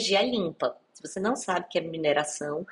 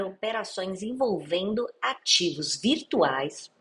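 reading legal text. Shown as a demonstration. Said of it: "abre aspas".

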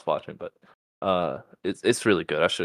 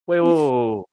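startled whoa; 5 semitones higher, 5 dB louder, faster than usual. Real, not acted. Reading shocking post aloud.

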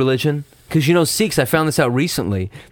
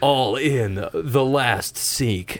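very slow, softer trailer tagline; mock trailer narrator; 3 dB quieter, much slower than usual. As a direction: drag out the title.

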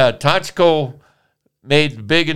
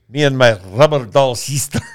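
put-on Russian accent. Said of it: "we'll do it all in Russian accent".

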